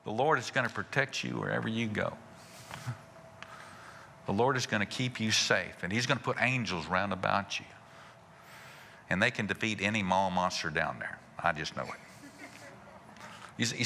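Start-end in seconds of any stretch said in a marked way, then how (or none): 0.0-12.0 lower, calmly assured blessing; understated, settled reassurance; faith declaration. Acted. Husband speaking faith over his wife's trip, calm and assured. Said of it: "What if they sounded like".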